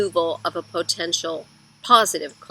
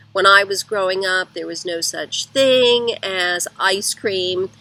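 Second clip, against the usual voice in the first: one-upping parent; 5 dB louder than usual. Retold or imitated. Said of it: "The third is one-upsmanship".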